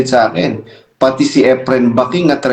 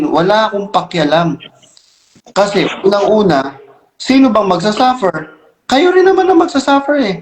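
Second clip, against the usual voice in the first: higher-pitched, defiant challenge; defiant rant; 6 semitones higher than usual. Real, not acted. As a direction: throw it back at the critics, pitched up. Defiant rant at critics being addressed. (pasinghal na paghamon, mataas ang boses)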